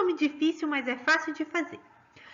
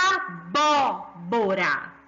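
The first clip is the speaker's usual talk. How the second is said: Abóbora said slowly with BÓ drawn out; stressed syllable BÓ; 6 semitones lower, much slower than usual. Shown as a demonstration. Teacher shows the tonic syllable, stressing BÓ in Abóbora. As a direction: stretch the BÓ in Abóbora, low and slow. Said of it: "O bó é a sílaba tônica".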